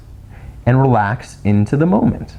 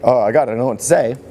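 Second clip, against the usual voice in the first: flustered; faster than usual. Retold or imitated. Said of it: "you kind of get this like".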